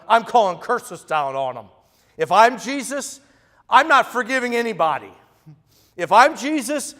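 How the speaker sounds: hammed-up vengeful bluster; fired-up mock outrage. Real, not acted. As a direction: build up the indignation. Imagining himself vengeful on cross.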